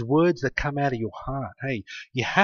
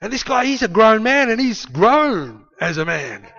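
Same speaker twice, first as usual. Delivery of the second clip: higher, pleading mock worry; worried king; 7 semitones higher than usual. King protesting to David, high worried voice. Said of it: "And the king's going".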